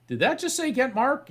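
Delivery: high, astonished question; can't believe what the box just said; stunned disbelief. Retold or imitated. Chris asks the crowd, astonished.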